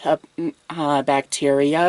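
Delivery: gentle, hushed bedside manner; whispered asmr role play. Acted.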